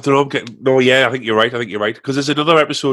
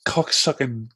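anger turning to laughter; 3 semitones higher, slower than usual. Real, not acted. Still cursing, cramp easing.

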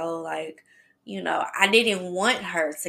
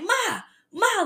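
high, urgent calls after the box; calling out. Retold or imitated. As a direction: call out to Mom as you chase it. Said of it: "I'm like".

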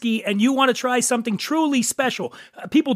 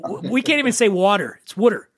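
"water" said WOO-der, Philly style; "water" with a rounded Philadelphia vowel, like wooder; Philadelphia accent. Shown as a demonstration. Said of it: "We fuck up everything".

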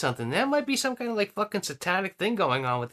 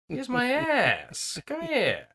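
slow mock pig-taunt; 7 semitones higher, much slower than usual. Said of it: "so he's like".

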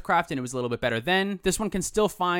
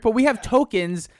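ad pitch; 7 semitones higher, 6 dB louder, slower than usual. Pretend. Ad pitch announcing tokens.

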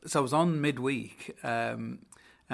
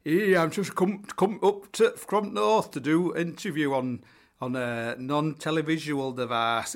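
high, loud, plummy BBC drama voice, slowing into it; mock-posh Radio Four announcer; 4 semitones higher, 5 dB louder than usual. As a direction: ham up a posh radio actor. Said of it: "you feel like you're in a Radio Four drama".

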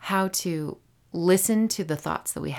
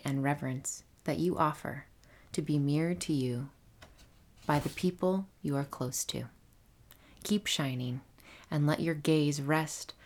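reading a love letter. Acted. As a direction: read it gently, like a letter. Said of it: "read this love letter for today".

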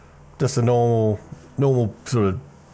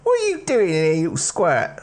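much higher, startled guard bark; gruff guard; 11 semitones higher than usual. Acted. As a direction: catch the kid and snap at him. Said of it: "he sees you and he goes".

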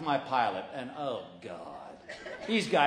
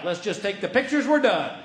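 scared bail-out; 4 semitones higher, 6 dB louder than usual. Retold or imitated. Scared reply before flight.

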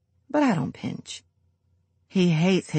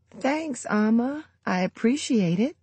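put-on old woman with a stuffy nose; 7 semitones higher than usual. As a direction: speak through a blocked nose. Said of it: "Her nose is stuffy".

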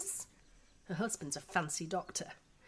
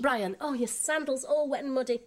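louder, fussing dismay; exasperated mother; 5 semitones higher, 5 dB louder than usual. Acted. Mother finds her son's sandal muddy, exasperated. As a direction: fuss over the mess.

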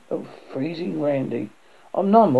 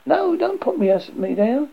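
high-pitched panicked plea; acted frightened wail; screaming; 11 semitones higher than usual. A narrator's reading. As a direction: plead in a high cry.

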